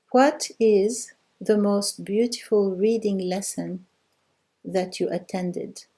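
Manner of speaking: slow and carefully spaced, each word given room; slow model answer. Shown as a demonstration. Teacher giving students the translation, slow and deliberate. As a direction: read it out slowly so the class can follow. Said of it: "Okay, the answer is".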